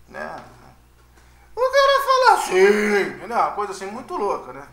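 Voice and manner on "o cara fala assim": mock squeaky puberty voice crack; cracking teen voice. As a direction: voice jumps way up into a squeaky, louder break. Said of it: "começa a ficar com aquela voz".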